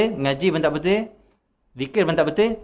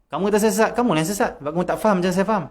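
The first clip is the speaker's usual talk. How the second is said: arrogant retort; 6 semitones higher, faster than usual. Retold or imitated. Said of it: "Dia kata apa?".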